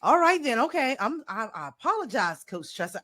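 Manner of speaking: imitated AI perking up, then settling; Reggie. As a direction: start high and eager, sink into apology. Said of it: "pick the energy up".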